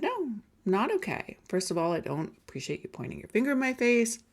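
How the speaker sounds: high, measured "no", then settling into evenness; calm refusal. Retold or imitated. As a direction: calmly set a boundary. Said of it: "I very calmly said".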